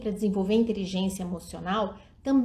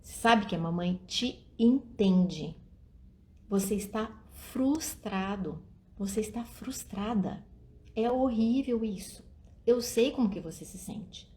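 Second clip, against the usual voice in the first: put-on gentle mother to child; 4 dB quieter than usual. Shown as a demonstration. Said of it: "fala assim".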